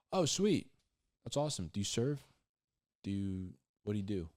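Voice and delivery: gush, then probe; mock enthusiasm. Questioner cheering the self-proclaimed Christian, mock delight.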